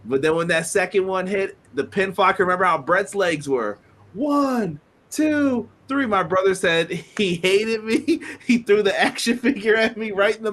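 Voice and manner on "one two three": excited count. Retold or imitated. Retelling the referee's pinfall count.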